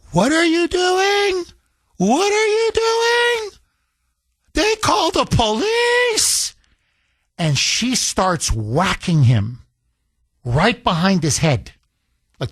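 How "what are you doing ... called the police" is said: high, slow mock shriek; imitating a yelling mother. Mother yelling at her son by the car, high mock shriek. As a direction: shriek it like a furious mom. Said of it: "you could hear her yelling".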